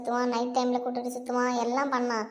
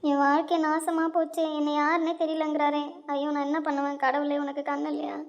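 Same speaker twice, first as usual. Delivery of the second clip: acted crying complaint; tearful lament; 2 semitones higher than usual. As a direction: wail mildly to God over a ruined life. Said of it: "ஏன் அந்த பொண்ணு அழுதுட்டு இருக்கு?". (அழுது புலம்பும் குரல்)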